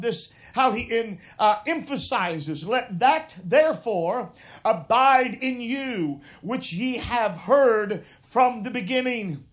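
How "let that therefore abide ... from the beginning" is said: slow, weighty rereading that leans on "abide"; slow deliberate reading. Shown as a demonstration. Preacher rereads the verse to the congregation, slowly and deliberately. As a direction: read the verse again slowly, stressing "abide". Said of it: "I'd like to read it by using that one word".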